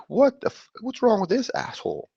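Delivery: mock angry reader. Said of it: "and it's like".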